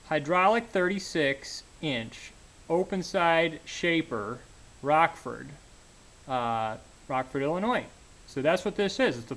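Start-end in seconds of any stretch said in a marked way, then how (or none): 0.1-7.8 kneeling down. Real, not acted. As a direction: talk from a kneeling position. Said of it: "Let me kneel down".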